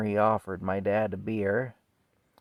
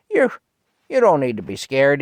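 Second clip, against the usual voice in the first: loud, higher farmer's holler; old man hollering; 5 semitones higher, 10 dB louder than usual. Retold or imitated. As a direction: shout reassurance up as the old man. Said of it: "the old man says".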